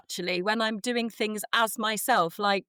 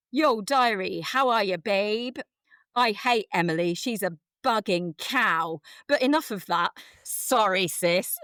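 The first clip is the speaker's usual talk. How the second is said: put-on reading teen diary. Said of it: "I will release the cringe".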